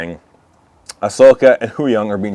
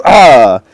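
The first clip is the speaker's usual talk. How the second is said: imitated cry; 6 dB louder than usual. Voicing Balin's cry in retelling.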